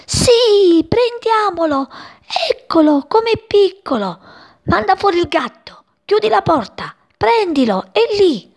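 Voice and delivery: put-on high, eager kids chasing a bird; high excited children's chatter. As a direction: grab it before it escapes.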